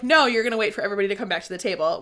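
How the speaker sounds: fast, laughing mock sternness; laughing through it. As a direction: rush it out while laughing. Retelling Asriel's rule, laughing.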